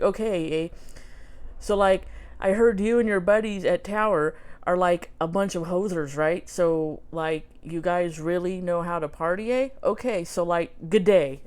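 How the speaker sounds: put-on light, amateur Canadian hoser accent; Doug McKenzie. Reading Doug's note to viewers, light Canadian hoser accent. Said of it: "my Canadian hoser accent".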